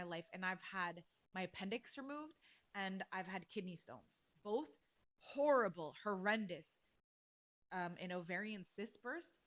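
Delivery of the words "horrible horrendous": loud punched words; emphatic. Real, not acted. Recalling the worst pain to listeners, loud and emphatic. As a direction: slam each adjective.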